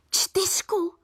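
high-pitched incredulous echo of one word; disbelieving. A narrator's reading. Mum stunned by the bad Czech grade, disbelieving. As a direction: repeat it in rising disbelief. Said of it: "vydechla nakonec nevěřícně".

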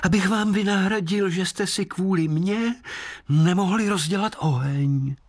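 high, kindly moon voice; lightly voiced apologetic moon. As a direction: moon making amends to travellers. Moon keeps speaking.

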